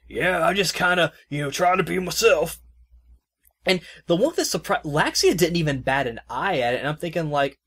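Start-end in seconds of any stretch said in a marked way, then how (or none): 0.1-2.6 a higher, louder, easygoing guy voice; laid-back Sahad voice. Retold or imitated. Host quoting Sahad after passing gas, breezy. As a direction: shrug it off cheerfully. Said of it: "he was all like".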